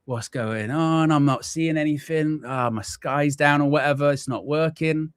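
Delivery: high, mock-panicked muttering; retold panic. Streamer reenacting his live-stream panic, high and mock-frantic. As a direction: replay the moment the screen went black. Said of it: "I'm freaking out 'cause I'm like".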